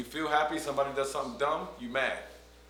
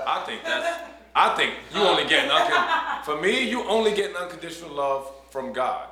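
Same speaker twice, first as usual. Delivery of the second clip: laughing; 5 semitones higher, 8 dB louder than usual. Real, not acted. Laughing disagreement with host.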